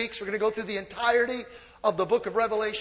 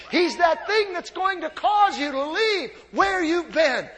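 preaching shout; 5 semitones higher than usual. Real, not acted. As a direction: drive it home to the congregation. Preacher building to a climax.

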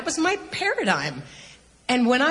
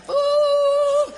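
very high, loud, startled oh; stunned oh; 5 dB louder than usual. Retold or imitated. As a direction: let it fly out in shock. Stunned reaction to the prophecy.

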